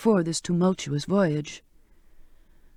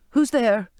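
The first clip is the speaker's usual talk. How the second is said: called out into the dark, a little louder; calling out; 5 semitones higher, 4 dB louder than usual. Acted. Charlotte calling into the dark brig, alarmed. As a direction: call out nervously into the dark. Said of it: "I called out".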